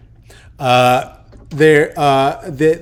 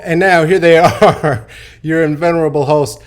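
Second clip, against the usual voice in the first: louder announcer voice, slowing on the name; announcer intro; 5 dB louder than usual. Acted. Host announcing their own entrance, mock announcer. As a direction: introduce the host like a game show.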